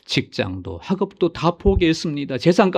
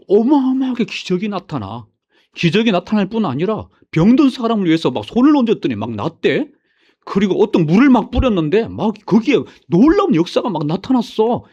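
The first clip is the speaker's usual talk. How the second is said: excited retelling, higher on the marvels; mock testimony, gushing over miracles; mimicked amazement; 5 semitones higher than usual. Enthusiast telling others about miracles at a meeting, mimicked amazement.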